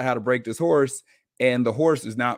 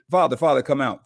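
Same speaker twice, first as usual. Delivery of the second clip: excited son calling, a bit louder and higher; mild mock scream; 4 semitones higher, 5 dB louder than usual. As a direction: imitate an excited call to father, not full force. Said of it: "hear him screaming as he's running towards the house".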